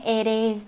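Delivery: "it is" run together as one; linked words. Shown as a demonstration. Teacher repeating linked "it is", demonstrative. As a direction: join "it" onto "is" without a gap. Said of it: "nối này".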